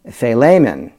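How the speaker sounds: "Philemon" said fay-LAY-mun; Greek app pronunciation. Shown as a demonstration. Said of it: "Speak Greek app says".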